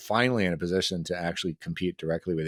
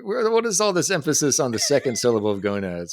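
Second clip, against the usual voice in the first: a touch higher, louder mock-earnest pitch; 4 semitones higher, 4 dB louder than usual. Retelling his friend's nineties joke, mildly hammed-up earnest pitch. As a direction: play up the old joke with mild fervor. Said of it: "You're like".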